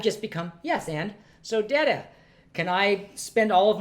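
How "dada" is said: normal talking voice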